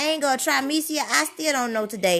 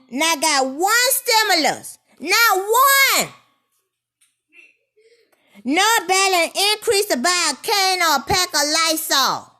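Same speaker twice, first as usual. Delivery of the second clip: louder, pitched-up outrage, hammering each point; loud indignant rant; 3 semitones higher, 4 dB louder than usual. Real, not acted. Speaker venting to viewers about benefits, loud and outraged. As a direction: vent about the missing stimulus, hitting it hard.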